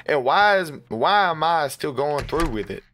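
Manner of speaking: exasperated. Real, not acted. Exasperated at the repeating loop.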